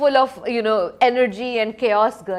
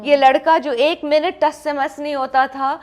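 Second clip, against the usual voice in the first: mock mother; 2 semitones higher, 6 dB louder than usual. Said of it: "mom is saying".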